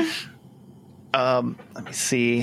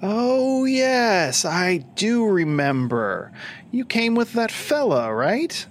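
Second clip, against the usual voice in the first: Lich voice recalling; 9 semitones higher, much slower than usual. Acted. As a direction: slowly recall the visitor. Lich recalling the caped fella.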